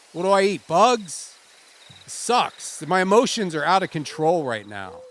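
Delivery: a bad actor forcing big feelings about being lost; overacted emotion. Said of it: "you said you needed more emotion".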